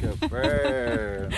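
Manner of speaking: high praising pet voice. Real, not acted. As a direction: praise the bird, high and sweet. Praising the bird.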